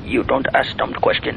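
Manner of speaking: put-on low, whispered rebuke in the Indian accent; hissed scold in the Indian accent. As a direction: hiss it softly. Scolding the called man.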